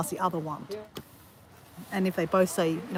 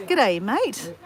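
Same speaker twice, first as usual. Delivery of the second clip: lightly put-on Australian greeting; hammed-up Aussie hello; playful Aussie. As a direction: play up the Australian accent a little. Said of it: "where is your accent from".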